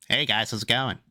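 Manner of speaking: lightly put-on friendly preppy greeting; a hint of a chipper new kid saying hi; mock white kid greeting. New kid greeting classmates, lightly mock-preppy. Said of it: "talking quote unquote white".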